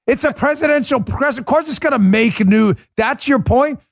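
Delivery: high, incredulous sneer at the reporter; mock her point with disbelief; sarcastic mockery. Real, not acted. Mocking reporter's praise of Biden.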